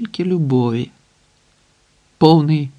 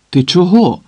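hurt retort; 5 semitones higher, 4 dB louder than usual. A narrator's reading. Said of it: "кинула із прикрістю".

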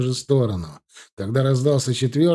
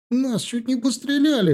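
much higher, panicked yell; 13 semitones higher than usual. A narrator's reading. Frightened thug yells in the fleeing car, high and panicked. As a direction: shriek out the near miss. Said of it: "заорал Серёга".

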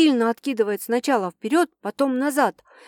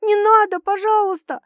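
high, loud begging; pleading through tears; 9 semitones higher, 4 dB louder than usual. Acted. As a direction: beg him to stop, voice up high. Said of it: "умоляю я сквозь слёзы".

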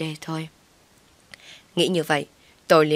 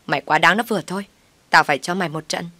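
fast, angry yell; sister-in-law yelling a threat; faster than usual. Acted. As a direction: scream a threat. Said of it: "Thu gào lên".

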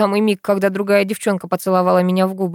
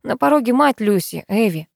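plain reading voice

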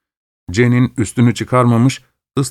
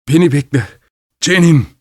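fearful shout; 4 semitones higher than usual. Acted. Husband calling his wife's name in fear. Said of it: "korkuyla bağırdı".

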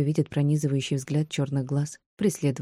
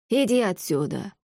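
slow, drawn-out scolding; lightly voiced angry crone; scolding old woman; 4 semitones higher than usual. A narrator's reading. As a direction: shoo her off like a cross old woman. Old woman drives heroine away.

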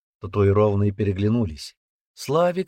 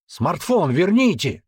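stubborn; 8 semitones higher, 4 dB louder, slower than usual. Acted. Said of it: "упрямо повторил парень".

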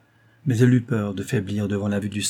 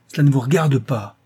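louder, furious retort; beside herself; 3 semitones higher, 5 dB louder than usual. A narrator's reading. Rose to Langlois, telling him off, furious cry. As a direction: shove the words at him in anger. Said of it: "cria Rose hors d'elle-même".

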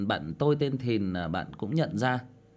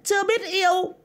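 ghostly echo voice; 5 dB louder than usual. Acted. Voice effect while reading comments.

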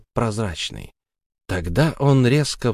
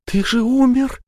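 much higher, louder horrified shriek; terrified cry; 4 dB louder than usual. Acted. Sara, white with horror, shrieks at the ghost. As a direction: scream at the dead man. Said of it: "Она побледнела от ужаса".

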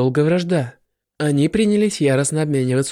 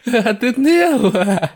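hateful; 6 semitones higher, 4 dB louder, much slower than usual. Acted. Goddesses face each other with hatred.

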